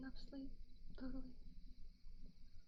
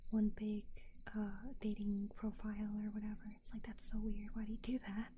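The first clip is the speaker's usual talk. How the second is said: breathy ASMR-style whisper. Real, not acted. Whispers through the stream.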